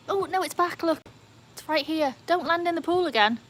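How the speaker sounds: excited alarm. Real, not acted. Streamer warns a bat off the pool, excited alarm. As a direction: warn it off, half thrilled. Bat swoops back near her.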